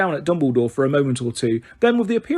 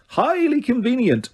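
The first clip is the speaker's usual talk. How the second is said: sneering; 9 semitones higher than usual. A narrator's reading. Repeated sneer, higher.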